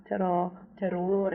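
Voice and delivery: terror then terrore, slowly contrasted; slow contrast of pronunciations. Shown as a demonstration. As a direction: set terror against terrore. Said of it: "not terror".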